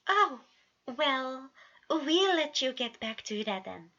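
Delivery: a kindly father covering his disappointment; hint of a cheery dad; fatherly voice. A narrator's reading.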